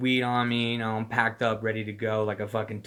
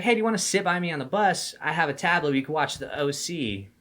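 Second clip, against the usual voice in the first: lightly voiced girl, a bit higher; imitated young woman; 4 semitones higher than usual. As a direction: lightly mimic a friendly invitation from a girl. Voices young woman inviting him.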